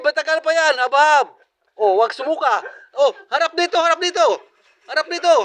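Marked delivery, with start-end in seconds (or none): 3.0-5.3 calling out. Real, not acted. Calling eater to face camera.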